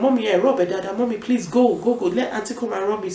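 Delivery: mildly frantic begging, as retold; urgent pleading. Labouring daughter begs mom for a back rub, urgent pleading.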